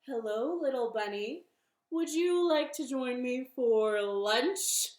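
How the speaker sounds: lightly voiced coaxing fox; fox character. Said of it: "So the fox crept up to the bunny and said".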